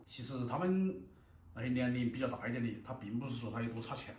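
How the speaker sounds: talking with a mouthful of noodles; chewing while talking. Real, not acted. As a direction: chew between words. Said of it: "eating noodles while talking".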